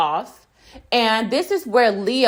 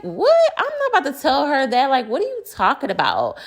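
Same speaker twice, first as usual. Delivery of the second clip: incredulous; 4 semitones higher, faster than usual. Retold or imitated. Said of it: "And Hannah's like".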